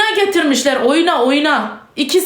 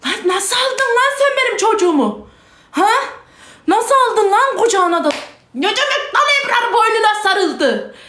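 higher-pitched, indignant demands; outraged; 4 semitones higher than usual. Real, not acted. Mother berating someone for handing her child to a stranger, outraged. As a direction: confront them in real, rising outrage.

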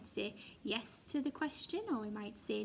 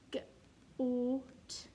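whispered word. Shown as a demonstration. Teacher whispering the word to children. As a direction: breathe the word out. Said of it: "I'm going to whisper this one".

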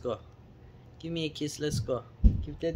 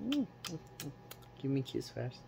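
softer and slow, drawn-out plea; soft slow coaxing; 7 dB quieter, much slower than usual. Real, not acted. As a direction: gently coax the kiss out of him, slowly. Coaxing pet for a kiss.

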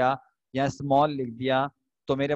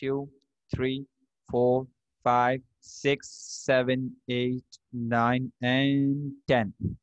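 slow countdown; slower than usual. Shown as a demonstration. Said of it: "ten तक count कर रहा हूँ".

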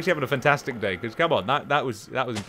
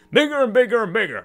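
excited; 7 semitones higher, 5 dB louder than usual. Real, not acted. Gleeful about growing room.

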